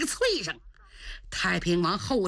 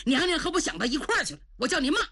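gleeful thought; 7 semitones higher, much faster than usual. A narrator's reading. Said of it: "心想".

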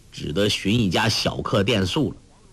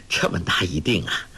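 breathy little laugh then marvelling; a touch of greedy delight; greedy giggle; 5 semitones lower than usual. A narrator's reading. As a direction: chuckle greedily at the silver. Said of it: "怦然心动".

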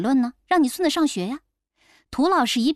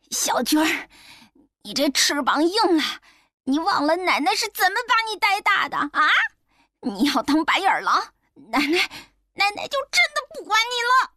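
higher, scolding grandmother; loud scolding; 7 semitones higher than usual. A narrator's reading. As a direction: grandmother scolds her grandson, hurt and angry. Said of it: "大声说". (奶奶大声责骂孙子)

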